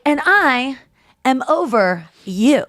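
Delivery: slow, hammed-up drunken declaration; drunk Rachel. Drunk woman phoning her ex for closure, lightly imitated drunken declaration. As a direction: imitate a tipsy caller making a slow announcement. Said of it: "she gets all drunk".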